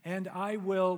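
loud proclaimed Scripture; loud Scripture quote. Acted. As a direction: proclaim the verse. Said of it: "He says".

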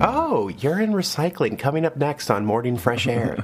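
mock public radio segment tease; radio announcer. Host teasing the next radio segment, in a mock announcer voice.

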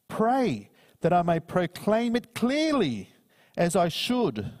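slow scripture reading. Acted. Preacher reading Colossians to the congregation, slow and solemn. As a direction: read it like holy text from the pulpit.

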